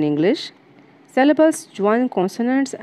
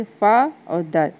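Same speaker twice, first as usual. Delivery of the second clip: फा and दर each given its own slow beat; slow two-part breakdown of फा, दर; syllables separated; much slower than usual. Shown as a demonstration. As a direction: stress फा, then दर, as separate syllables. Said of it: "दो बार मात्रा लगानी पड़ी".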